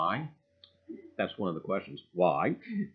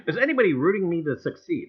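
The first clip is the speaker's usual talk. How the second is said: laughing question; 5 semitones higher, 7 dB louder, faster than usual. Real, not acted. Laughing plea to chat.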